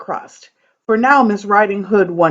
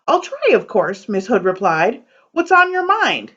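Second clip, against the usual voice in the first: lively poem reading with character voices; storytelling read-aloud. A narrator's reading. Librarian reading a fairy tale poem to kids, animated. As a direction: read the rhyming tale to children with bounce.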